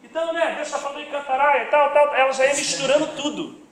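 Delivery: high, run-on prophetic chatter; imitating tongues-speaking sister. Sister mixing Portuguese with tongues, imitated high. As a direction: mimic her mixing words and tongues, pitched high. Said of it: "ela já falava em línguas".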